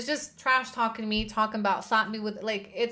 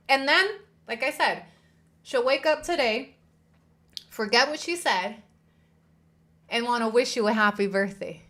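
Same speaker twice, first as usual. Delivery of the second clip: heated; 4 dB louder than usual. Real, not acted. Rising rant about her behavior.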